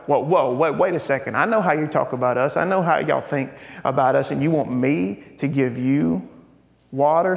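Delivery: wary pushback. Retold or imitated. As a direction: hold him off, hurt not amazed. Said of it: "I don't even think it was surprise".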